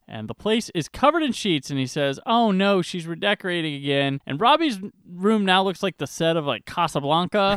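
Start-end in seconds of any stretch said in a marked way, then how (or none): none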